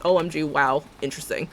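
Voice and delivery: flat mock amazement; mock surprise. Shown as a demonstration. Vlogger asking viewers to act surprised, deadpan mock wow. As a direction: fake being surprised, deadpan. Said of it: "Still act".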